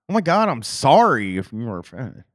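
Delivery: insincere, mock-sorry apology; lightly acted, hollow sorry; fake apology. Shown as a demonstration. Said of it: "It's like".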